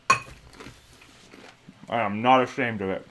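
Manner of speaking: talking while chewing chips; words round a mouthful of chips; mouth full. Real, not acted. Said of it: "munching on some chips and salsa here".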